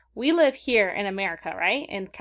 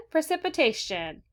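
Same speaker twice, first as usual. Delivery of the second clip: "Precipitation" said higher, falling at the end; higher repeat; 6 semitones higher than usual. Shown as a demonstration. Teacher says the word again for the class, higher. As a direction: lift "Precipitation" up high, then fall. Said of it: "Say it again".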